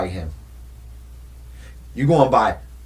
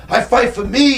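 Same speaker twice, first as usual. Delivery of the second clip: Drago defiant; 9 semitones higher, 5 dB louder than usual. Retold or imitated. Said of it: "he was like".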